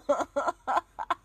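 high giggle in short bursts; string of high ha-has; self-amused laugh. Real, not acted. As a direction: laugh at your own corny pitch. Laughs after pitching herself to writers.

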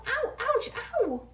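high, loud yelps of pain; rapid-fire pained yelps; storybook ow-ow-ouch yell. A narrator's reading. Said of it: "she yelled".

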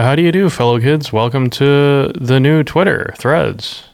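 mock-unenthusiastic welcome, slowing down; slow the welcome as if half-hearted. Co-host mimics Zuckerberg welcoming fellow kids, mildly unenthusiastic. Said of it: "it's just very un-, unenthusiastic".

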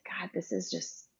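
very soft, almost whispered; hushed inner thought. Retold or imitated. New mother privately admitting how it feels, hushed.

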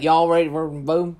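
gravel-mouthed upstate New York twang; loud, garbled upstate New York accent. Shown as a demonstration. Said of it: "It's more gravel mouthed".

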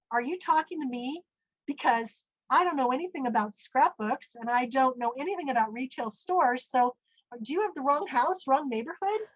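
mock-baffled challenge to God; incredulous questioning. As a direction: question heaven as if it made a mistake. Retells challenging God in disbelief.

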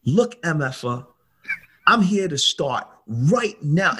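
contained anger, each word weighted; retold rage. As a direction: imitate someone laying down the law. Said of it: "a guy in rage".

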